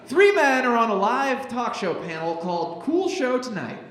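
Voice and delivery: lightly theatrical announcer delivery; scene-setting read. Acted. Host reading sketch directions to the crowd, theatrical scene-setting. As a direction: set the scene with mild showmanship.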